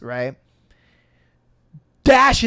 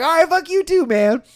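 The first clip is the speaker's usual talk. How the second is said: laughing retort; 12 semitones higher, 6 dB louder than usual. Retold or imitated.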